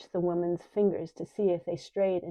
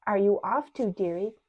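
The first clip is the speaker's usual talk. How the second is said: mocking; 4 dB louder than usual. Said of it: "mocked Orange Eyes".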